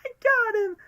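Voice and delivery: shrieking high villain triumph; manic, drawn-out high cry; Riddler. Retold or imitated. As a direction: screech it out, stretching every word. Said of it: "what the Riddler said by saying".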